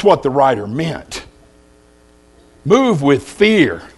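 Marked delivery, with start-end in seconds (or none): 2.6-3.8 very slow, each word weighed; slow solemn title. Acted. Preacher opening his sermon, stating the theme slowly. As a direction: let the title sink in slowly.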